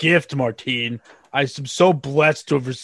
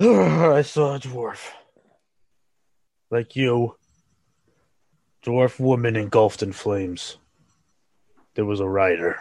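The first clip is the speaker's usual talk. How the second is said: breathing hard, panting, much slower pace; 3 semitones lower than usual. Storyteller voicing Kravoi, who drops his head, breathing heavily. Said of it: "she's just breathing heavily".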